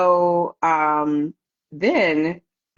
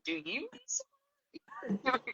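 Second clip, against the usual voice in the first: mock concern; 11 semitones higher, 15 dB quieter, slower than usual. Mocking reply to nurse.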